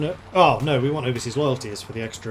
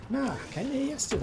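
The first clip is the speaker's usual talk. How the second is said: higher broad Australian punchline, retold; Australian accent; 12 semitones higher, 6 dB quieter than usual. Retelling the joke's Australian soldier, broad Australian accent. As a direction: repeat the Aussie punchline with a grin.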